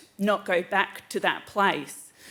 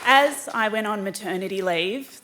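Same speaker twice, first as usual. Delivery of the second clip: shaky voice; 3 semitones higher, 5 dB louder than usual. Real, not acted. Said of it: "sorry, my voice is shaking".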